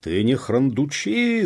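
loud, high, drawn-out order; angry shout. A narrator's reading. Police officer stamping at the peasant, angry. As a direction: shout him down. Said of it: "затопал пристав".

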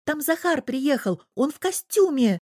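put-on a thrilled little boy; excited child. A narrator's reading. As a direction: burst in with the news. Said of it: "верещал радостно ребёнок".

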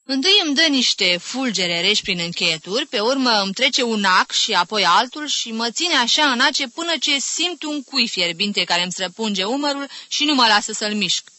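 high, loud, dramatised account of pain; suffering complaint. Acted. Sufferer describing stabbing pains to a curious aunt, dramatic complaint. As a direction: relish every twinge as you list it.

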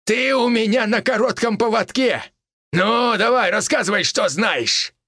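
high, taunting menace; threatening old villain. Acted. Old criminal taunting the major, high mocking threat. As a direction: jeer at him, pitched high.

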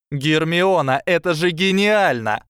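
delighted, rising exclamation; admiring exclamation. A narrator's reading. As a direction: burst out in admiration. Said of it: "восхищённо сказала Дафна".

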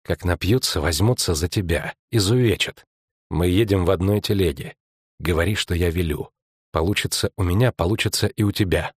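low, secretive murmur to an accomplice; understated low conspirator; conspiring prisoner. Acted. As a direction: coach her under your breath.

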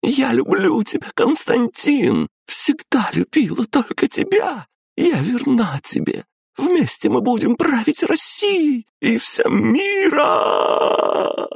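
очень высоко, с плачем и криком; умолять сквозь рыдания; отчаянная мольба. A narrator's reading. Горящая императрица молит мужа. (горящая императрица в слезах молит мужа)

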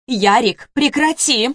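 loud, high stop-it cry; mother shouting at her son to stop; sharp command. Acted.

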